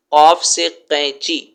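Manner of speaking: قینچی said slowly with throaty q; slow careful qaf. Shown as a demonstration. Aunt teaching the word slowly, stressing قاف. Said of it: "حلق سے قاف کی آواز نکالو".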